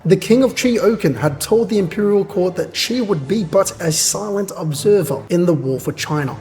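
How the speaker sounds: measured narrator reading; story narration. A narrator's reading. Reader recounting the king's pledge, measured narration. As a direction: read it like a chronicle.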